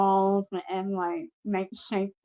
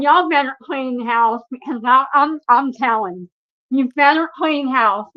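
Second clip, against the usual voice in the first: louder, insistent warning, short of a scream; retold screaming; 3 semitones higher, 6 dB louder than usual. Patient yelling at the hospital cameras, toned-down retold scream. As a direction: raise your voice in a retold threat. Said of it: "screaming at the cameras".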